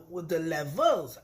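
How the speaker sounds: usual speaking voice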